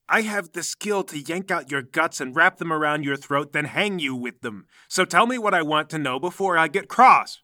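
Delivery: cold threat. Acted. Noblewoman threatens the guard.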